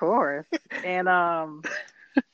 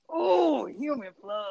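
mock Jasper; 8 semitones higher, slower than usual. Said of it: "member who's like".

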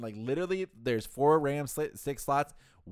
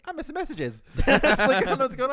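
much higher, squeaky alarm; panicked squeak; 12 semitones higher, 9 dB louder than usual. Retold or imitated. Retold panic at work.

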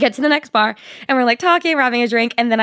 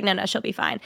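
brushing off worries; 3 semitones lower, 8 dB quieter than usual. Retold or imitated. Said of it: "And then he convinced her".

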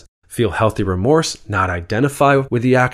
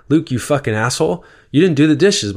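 mock angry shaming; 5 semitones higher than usual. Friend shaming over dishes.

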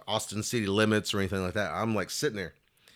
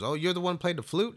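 1 surprised recognition; 10 semitones higher than usual. Retold or imitated. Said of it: "He goes".

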